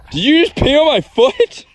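high, loud disbelieving yelp; shocked question. Real, not acted. Owner reacts to the dog peeing on his foot, shocked and high. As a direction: sound genuinely startled.

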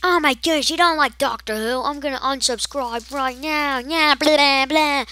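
high, loud mocking rant; outraged fan. Mocking Doctor Who fans threatening to unsubscribe, high loud rant. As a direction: ham up an angry subscriber. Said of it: "are gonna be like".

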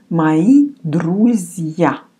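Мои друзья said slowly, Мои as "mai"; careful slow repeat of Мои друзья; slow model reading. Shown as a demonstration. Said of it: "Мои means my".

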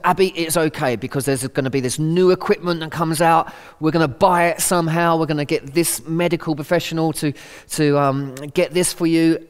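a touch of eager reassurance; fix-it mode. Retold or imitated. Dad eagerly promising his crying daughter new equipment, mildly pushy. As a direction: rush in with solutions. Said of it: "I went into fix-it mode".

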